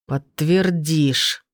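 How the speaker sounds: a thug squeezes her throat, slow menacing growl; growled threat. Acted. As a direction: drag the word out as a threat. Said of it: "прорычал он".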